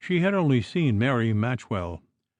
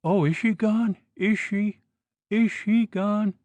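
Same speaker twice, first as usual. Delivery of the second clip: frightened cry; 9 semitones higher than usual. A narrator's reading. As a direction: beg to know she is gone, terrified. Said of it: "cried Missus Nutter".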